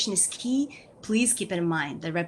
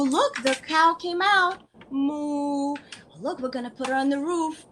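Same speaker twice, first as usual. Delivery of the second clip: put-on high, sing-song play voice with a toddler; animated, much higher voice, as if playing farm animals with a small child; playful parentese; 6 semitones higher, 4 dB louder, slower than usual. Shown as a demonstration. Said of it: "you play with it".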